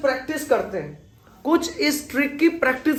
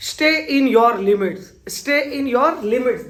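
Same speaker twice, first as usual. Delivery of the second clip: very slow, every word spelled out; slow clear demo; 2 semitones higher, 3 dB louder, much slower than usual. Shown as a demonstration. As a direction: model the sentence slowly for learners. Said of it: "तो यहाँ पे बोलोगे stay".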